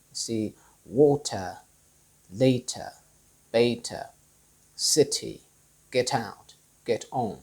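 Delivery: slow, water, later, city with clear released Ts; British true T. Shown as a demonstration. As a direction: pronounce every T crisply. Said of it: "the true T".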